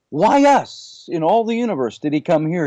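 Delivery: put-on New York Jewish accent, starting very high; high-pitched opening in a New York Jewish accent; Richard Feynman. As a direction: imitate a Jewish New Yorker asking in disbelief. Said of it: "in this thick, uh, New York, uh, you know, Jewish accent that he had".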